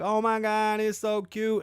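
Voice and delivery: high squeal of delight; gushing daughter. Retold or imitated. Daughter admiring the Birkin bag, high gushing delight. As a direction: coo over the bag in a high voice. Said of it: "be like".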